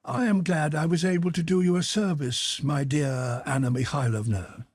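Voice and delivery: high, gracious condescension; lightly voiced self-important prince. Prince accepting the mother's gratitude, lofty. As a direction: play the patron being thanked.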